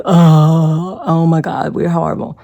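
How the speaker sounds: mock dismay. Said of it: "shocked and be like".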